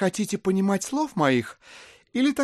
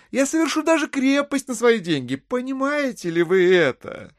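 higher-pitched, emphatic pleading argument; insistent persuasion; 6 semitones higher than usual. Acted. Buyer explaining to the widow he pays now, high insistence. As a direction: drive every point home, pitched up.

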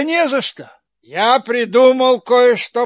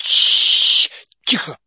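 hushing; 4 semitones lower, 3 dB louder, slower than usual. Acted. Karabas hushes suddenly.

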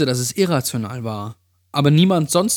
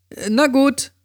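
very high-voiced friend conceding; Amy; 12 semitones higher than usual. A narrator's reading. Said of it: "sagte sie".

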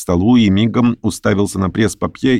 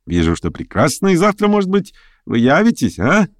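higher, quick eager busybody; fussy chatterer; 5 semitones higher than usual. Acted. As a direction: chatter on, pleased with himself. Pyotr Stepanovich voiced by narrator. (суетливый болтун, высоко)

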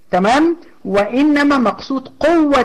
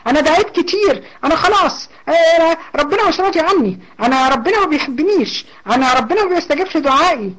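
a higher, hopeless lament; despairing complainer; 5 semitones higher than usual. Acted. Teacher voices a despairing woman whose prayers seem unanswered, higher and lamenting. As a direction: play the woman who thinks God has left her.

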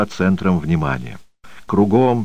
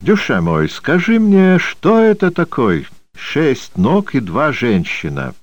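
put-on Armenian accent; 8 semitones higher than usual. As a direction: tell it like an Armenian uncle with a riddle. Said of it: "Армянский".

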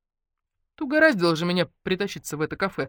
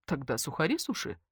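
softer resigned sigh; 7 dB quieter than usual. Acted. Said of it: "вздохнула Наташка".

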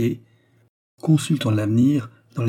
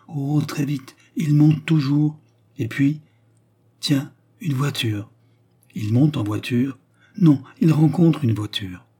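put-on higher-pitched child sleepwalker voice; entranced child seer; 4 semitones higher than usual. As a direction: report the vision haltingly, pitched up. Child somnambulist following the man.

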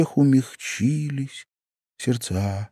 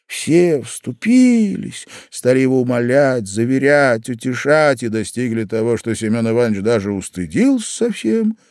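plain reading voice

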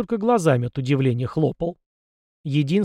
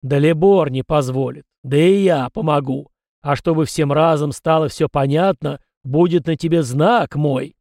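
ancestor spirit's voice; 5 dB louder than usual. Acted. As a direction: speak as an old spirit from beyond, a little louder. (голос духа предка, громче и весомее)

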